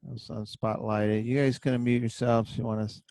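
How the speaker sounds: talking funny after dental work; words slurred around a numb mouth; numb mouth from tooth pulled. Real, not acted. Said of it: "I just had a tooth pulled and I'm talking funny".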